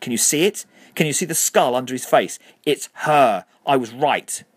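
high, loud manic cry; frantic screaming. A narrator's reading. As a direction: scream it as if you were proven right. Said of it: "Harriet screamed".

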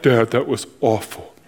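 lightly mock a son's critique; son's verdict. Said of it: "my son later will be like".

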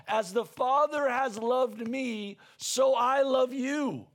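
slow, lingering on each word; slow tender promise. Retold or imitated. Preacher quoting Jesus to the congregation, slow and tender. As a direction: speak it like a gentle promise. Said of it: "He would say this".

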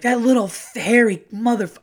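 high, loud clipped-off swearing in pain; cut-off curse. Retold or imitated. Finger bitten by the hamster, pained swearing cut short. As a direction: spit out the curses and bite them off. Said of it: "and I was like".

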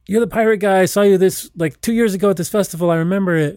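high, eager fan voice; excited fan. Retold or imitated. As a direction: gush like a thrilled fan. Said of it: "be like".

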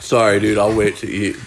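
talking while chewing; words through a bite of food; mouth full. Real, not acted. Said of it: "You hear me chewing and shit".

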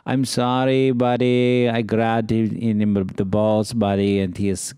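lightly voiced apologetic club owner; Jamie Masada. Club owner coming in to apologize, mild impression. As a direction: imitate an owner apologizing, drawn out in places. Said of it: "then I have the owner of the club".

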